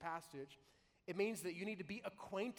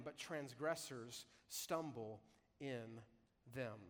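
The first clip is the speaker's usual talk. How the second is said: slow, deliberate reading of the verse; scripture reading; slower than usual. Acted. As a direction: read the Bible text slowly and solemnly. Pastor reads the scripture passage.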